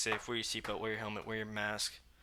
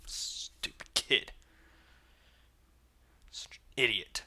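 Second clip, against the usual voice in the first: slow breathy whisper of contempt; whispered insult; slower than usual. Real, not acted. Scorning the killer to himself, in a whisper.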